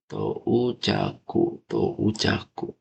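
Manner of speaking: TOUCHAKU said slowly, the "tou" drawn out; long vowel. Shown as a demonstration. Teacher shows students how a kanji word reads, slow long vowel. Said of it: "tounya panjang".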